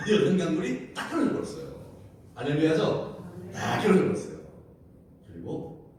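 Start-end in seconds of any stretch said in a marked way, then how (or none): 0.1-4.4 louder, rising triumph; preacher's jubilant climax; excited proclamation. Real, not acted. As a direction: announce the miracle with joy. Triumphant miracle report.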